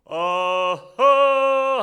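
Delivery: long, loud open-throated holler; sustained, high vocal-training shout; imitated singer's yell. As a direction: imitate a singer bellowing over a waterfall. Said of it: "하면서 그냥 소리를 지른단 말이야".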